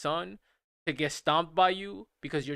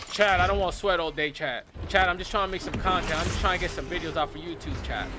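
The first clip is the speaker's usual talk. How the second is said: mock streamer to chat. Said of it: "you hear them arguing with chat".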